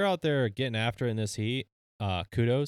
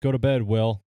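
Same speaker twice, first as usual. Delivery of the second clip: calling out; 9 dB louder than usual. Pretend. Calling out to a listener.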